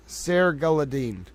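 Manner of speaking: "Sergaladin" slowly pieced together; struggling pronunciation. Real, not acted. Host struggles with names, slowly trying "Sergaladin". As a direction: feel your way slowly through "Sergaladin". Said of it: "I struggle to pronounce any name".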